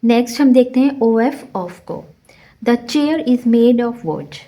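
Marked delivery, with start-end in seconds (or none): 2.6-4.4 very slow, word by word, the f in "of" swallowed; slow careful classroom read-aloud; slow demo reading. Shown as a demonstration. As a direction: read it out slowly for the class, letting "of" sound like "uh". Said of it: "of का एफ जो है वो silent".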